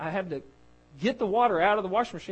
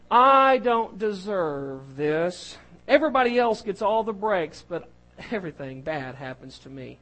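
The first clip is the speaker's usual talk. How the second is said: slow, louder whining complaint, then trailing off; mock whiner; 5 dB louder than usual. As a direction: ham up a self-pitying whine that fades at the end. Voicing a typical whiner.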